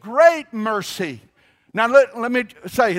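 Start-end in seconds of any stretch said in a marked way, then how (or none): 0.0-1.2 "Great mercy" drawn out slowly, both words weighted; emphatic. Shown as a demonstration. Preacher leading the congregation to repeat "Great mercy", slow and emphatic. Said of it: "Say it again with some emphasis".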